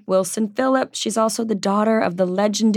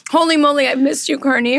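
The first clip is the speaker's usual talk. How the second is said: excited; 6 semitones higher than usual. Real, not acted. Greeting friend, sugar rush.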